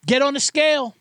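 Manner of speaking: a bossy coach yelling at dancers; mock drill coach. Coach barking at backup dancers, mock shout.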